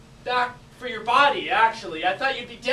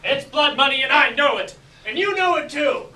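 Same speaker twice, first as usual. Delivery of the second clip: acted mafia threat; 2 semitones higher, 4 dB louder than usual. Improv scene, mafia quarrel.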